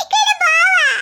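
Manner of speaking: put-on stamp it out like a pouting toddler. Child sulks, louder.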